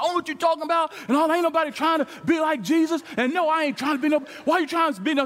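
high-pitched, flustered protest; defensive outburst. Retold or imitated. Ben protests to his friend Gary, flustered and high. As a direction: blurt it out, caught off guard and rattled. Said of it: "I said".

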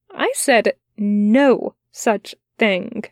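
slow, gentle but firm denial; steady him without pushing. Acted. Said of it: "gently, but firmly".

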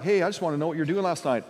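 quick, casual parental question; sincere asking. Acted. Parent to teenager about last night, sincere asking. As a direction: ask lightly, just wanting to know. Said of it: "that can be a sincere".

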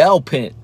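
"elpint" said as ELP-int, middle syllable dropped; toddler mispronunciation. Retold or imitated. Dad imitating his son saying "elpint" for elephant. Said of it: "He said".

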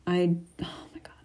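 breathy hushed oh my God; whisper. Real, not acted. Teen vlogger whispering to herself at the mirror. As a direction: say it under your breath.

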